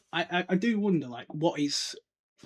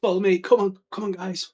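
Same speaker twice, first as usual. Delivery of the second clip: louder, eager prefect rallying; bossy Percy; 4 semitones higher, 8 dB louder than usual. Retold or imitated. Percy leading his house away, bossy call. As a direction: herd the first years proudly. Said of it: "I can imagine he's like".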